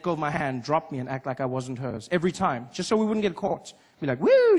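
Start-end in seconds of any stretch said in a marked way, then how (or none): 4.2-4.6 startled yelp. Retold or imitated. Mom startled by police.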